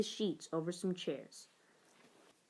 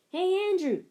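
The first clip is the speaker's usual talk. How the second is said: higher, louder call; 10 semitones higher, 6 dB louder than usual. Acted. Boy calling his friend from the fort, loud call. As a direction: call him from inside the fort. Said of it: "he called".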